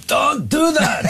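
"Don't do that!" yelled high and sharp; mock shout. Host riffing on the French police line, yelling it. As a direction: bark the order high. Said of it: "we're just gonna riff with that".

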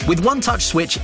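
ordinary delivery

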